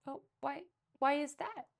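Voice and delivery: high, puzzled question; timid lady asking innocently; innocent surprise. A narrator's reading. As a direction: ask it sweetly, baffled. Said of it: "asked Miss Honeycutt".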